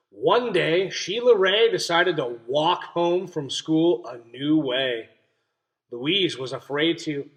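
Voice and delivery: slow, clear picture-book read-aloud; reading to children. A narrator's reading. Teacher reading a story to her class, clear and expressive.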